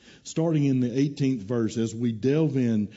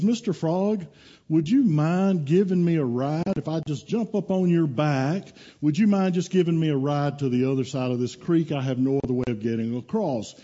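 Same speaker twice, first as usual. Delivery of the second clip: a touch higher, storybook request; lightly voiced polite scorpion; 4 semitones higher than usual. Scorpion asking Mister Frog for a ride, lightly voiced and polite. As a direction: ask a favor with gentle storyteller lilt.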